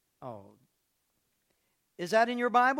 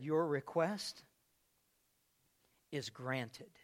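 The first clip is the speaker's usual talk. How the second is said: gentle Jesus; 6 semitones lower, 6 dB quieter, much slower than usual. Retold or imitated. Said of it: "Jesus then looked at her and said".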